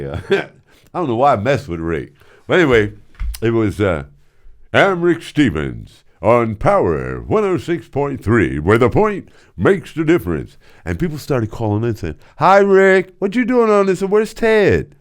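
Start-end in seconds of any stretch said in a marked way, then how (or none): 4.7-10.6 pranking listeners as the program director; imitating Rick Stevens. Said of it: "got on the radio as Rick Stevens". 12.4-14.9 high, loud eager caller. Retold or imitated. Voicing callers.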